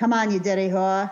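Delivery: poor put-on Boston accent. Retelling what a man basically said, in a bad Boston accent. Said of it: "I can't do a good Boston accent".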